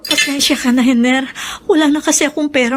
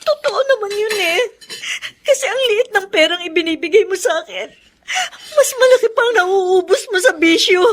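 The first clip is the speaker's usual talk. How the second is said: near tears, pleading with her husband; tearful pleading; 2 semitones higher than usual. Acted. Wife pleading with abusive husband. (umiiyak na pakiusap sa asawa)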